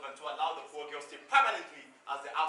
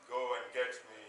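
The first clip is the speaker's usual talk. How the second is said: lower, curt order; commanding master; 7 semitones lower, 4 dB quieter than usual. Acted. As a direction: give the order like the man of the house.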